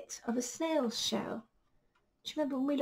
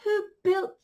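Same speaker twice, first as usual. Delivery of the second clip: owl's voice; 6 semitones higher, 7 dB louder than usual. Acted. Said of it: "asked the owl".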